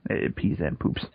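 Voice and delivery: whispering. Real, not acted. Explaining cloaca.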